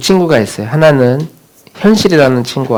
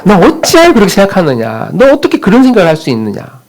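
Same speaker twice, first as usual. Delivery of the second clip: higher, pleading call to Jacob; preacher calling out Jacob's name, higher; 5 semitones higher than usual. Acted. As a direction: cry out to Jacob as God's voice. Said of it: "우리의 마음을 향해 이렇게 외치는 거예요".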